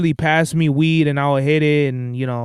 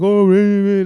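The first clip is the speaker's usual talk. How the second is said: wimpy; 2 semitones higher, 4 dB louder than usual. Shown as a demonstration. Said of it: "you can't just be like a wimp".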